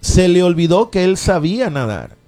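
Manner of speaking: fervent radio sermon, rising and falling; preaching. Acted. Radio preacher urging listeners to faith, fervent preaching.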